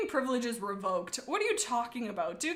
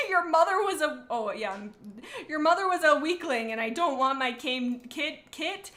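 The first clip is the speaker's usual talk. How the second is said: louder angry insult; 4 semitones higher, 5 dB louder than usual. Acted. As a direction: spit out the insult. Cat insults mother, reader reacts.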